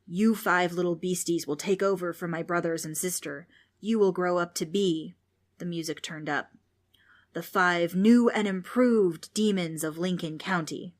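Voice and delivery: a ghost revealing their destiny; a lightly hammed-up ghost; grand ghostly pronouncement. Ghost announces grand fate.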